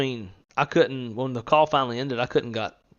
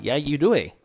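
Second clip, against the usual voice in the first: put-on loud, raised Canadian-accent tease; mock Canadian accent; 5 semitones higher, 7 dB louder than usual. Talking back to annoyed Canadians, teasing mock Canadian accent. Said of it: "I would respond to them".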